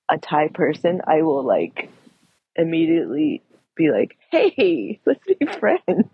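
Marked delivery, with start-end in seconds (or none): 4.3-6.1 high, bright mock greeting, stretched slowly; eager friendly mock. Greeting a fellow Thai person, high and eager. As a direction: gush like meeting a long-lost friend.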